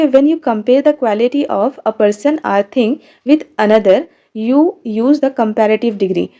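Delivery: reading each word slowly for the class; dictating the sentence slowly and clearly; slow textbook reading. Shown as a demonstration. Reads definition from book. (धीरे-धीरे पाठ पढ़कर सुनाना)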